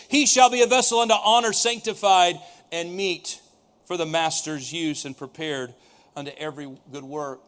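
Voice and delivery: measured scripture read that sinks to a hush. Acted. Preacher to church, reading Paul's letter to Timothy solemnly. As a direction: read the verse with weight, letting the end fall away. Reads Second Timothy aloud.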